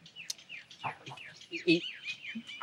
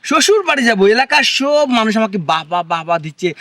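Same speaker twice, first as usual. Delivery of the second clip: raised, louder indignant voice; exasperated protest; 4 semitones higher, 4 dB louder than usual. Acted. Husband protesting to wife about visiting in-laws, exasperated. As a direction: argue back in mounting exasperation.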